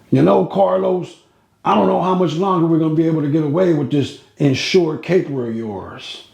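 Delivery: put-on half-hearted old-timer leaning in, conspiratorial; Mister Niccolo voice. Retelling Niccolo confiding.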